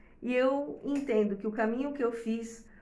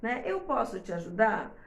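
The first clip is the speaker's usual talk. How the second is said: gentle questioning. Retold or imitated. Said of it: "fala assim".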